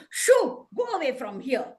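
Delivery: brisk dismissive "shoo"; shooing away. Acted. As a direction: shoo a pest away, loud then settling. Woodcutter chases the crow away.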